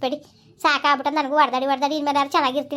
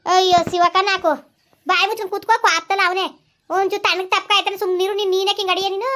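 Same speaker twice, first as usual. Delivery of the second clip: scolding; 5 semitones higher than usual. Acted. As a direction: tell him off sharply to shut up. Mother scolds her drunk son. (ಎತ್ತರದ ದನಿಯಲ್ಲಿ ಗದರಿಕೆ)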